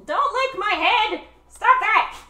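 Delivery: very high-pitched squeal at a pet; squealed protest. Real, not acted. Owner telling dog to stop licking, high squealed protest.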